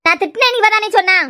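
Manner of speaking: heated, rising-pitch accusation; indignant accusation. Acted. Aunt accuses child of telling on her, indignant. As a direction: accuse sharply, pitch climbing.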